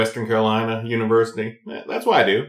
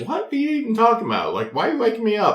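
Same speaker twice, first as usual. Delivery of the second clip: retold annoyance; 12 semitones higher, faster than usual. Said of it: "And I was like".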